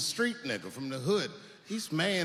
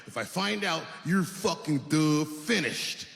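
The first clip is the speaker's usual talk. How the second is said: menacing threat with a dumb grunt; lightly voiced threatening figure; mystery impression. Comic posing as the audience, threatening to ruin you. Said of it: "let me get into character".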